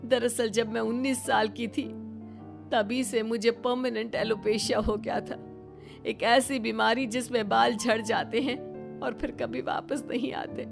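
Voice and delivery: apologetic, on the verge of tears; tearful confession. Acted. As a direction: confess a long-kept secret in tears. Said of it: "Yamini की आंखों में आंसू आ जाते हैं".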